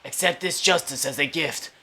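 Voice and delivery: put-on quiet mob don, measured phrases; Vito Corleone impression. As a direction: speak softly and deliberately as an old-time mob boss. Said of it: "doing that Vito Corleone impression".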